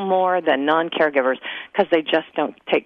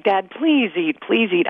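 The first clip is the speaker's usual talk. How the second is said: higher-pitched, mildly whiny pleading; 4 semitones higher, slower than usual. Retold or imitated. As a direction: imitate yourself begging Dad to eat. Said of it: "this whiny tone in your voice".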